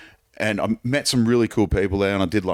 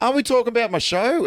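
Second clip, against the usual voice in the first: 1 mock confused reply. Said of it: "And I'm just like".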